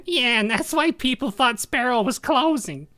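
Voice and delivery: high nerdy character voice. Acted. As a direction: keep the nerd voice going. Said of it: "I can't take that voice seriously".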